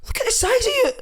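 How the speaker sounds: put-on very high, incredulous Italian accent; Paolo Di Canio. Italian manager shocked at his player's size, Italian accent. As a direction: gasp it like an appalled Italian coach. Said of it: "And he goes".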